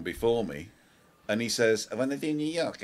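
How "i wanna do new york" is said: squeaky French guy. Retold or imitated. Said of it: "he had this horrible squeaky voice".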